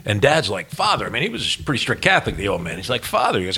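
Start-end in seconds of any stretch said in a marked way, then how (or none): 0.7-1.0 high, imitated reproach; a touch of scandalized protest; mildly shocked. Strict Catholic dad shocked by priest swearing. 3.0-3.4 high-pitched mock protest; acted shock at a swearing priest; shocked reproach. Dad's shocked reproach told again.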